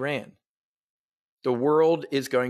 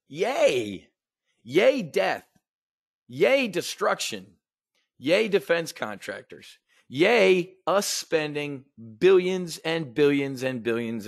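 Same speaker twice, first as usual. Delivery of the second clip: sarcastic cheer; 2 semitones higher, slower than usual. Acted.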